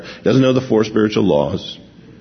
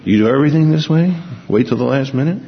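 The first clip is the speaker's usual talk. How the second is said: mock scolding; 4 semitones higher, faster than usual. Imagined teasing rebuke to thief.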